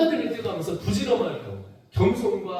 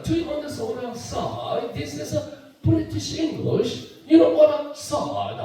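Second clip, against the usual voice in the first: higher, slow mock British English; British accent; 7 semitones higher, much slower than usual. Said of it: "영국 발음이 달라요". (높고 느린 영국식 발음 흉내)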